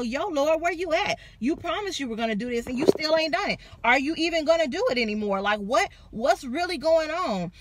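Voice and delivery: playful imitation of a frustrated believer; mock impatient complaint. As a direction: rattle off the complaint, fed up. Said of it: "There are gonna be days where you like".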